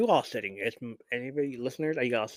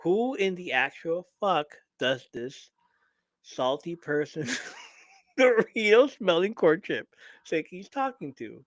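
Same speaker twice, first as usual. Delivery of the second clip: outraged; 5 semitones higher, 4 dB louder than usual. Real, not acted. Outraged rant at the boss.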